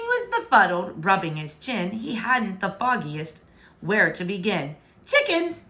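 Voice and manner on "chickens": higher, baffled question; puzzled question. A narrator's reading. Befuddled king asking his daughter, puzzled. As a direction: ask it totally befuddled. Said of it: "he asked".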